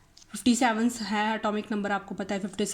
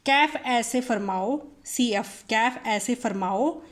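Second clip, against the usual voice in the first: slow, drawn-out recital; very slow deliberate chant; slow mnemonic; slower than usual. Shown as a demonstration. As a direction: stretch each word so it sticks. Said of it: "बीके".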